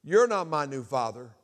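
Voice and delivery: put-on loud defiant kid, climbing high; retold angry retort. Boy rejects new stepfather, acted angry retort. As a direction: hurl the insult back, acted.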